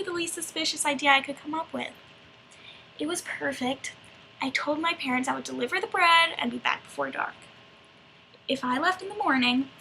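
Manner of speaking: lightly acted, animated storytelling monologue; Little Red. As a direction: confide the tale with theatrical, rising emphasis. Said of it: "it's in the perspective of Little Red".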